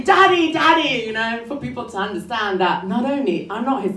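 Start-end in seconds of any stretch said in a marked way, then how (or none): 0.0-0.5 high, loud call of Daddy across a room; mock scream. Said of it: "I have to scream". 0.5-1.0 second "daddy" still loud and high but a little less; repeated mock scream. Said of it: "I have to scream".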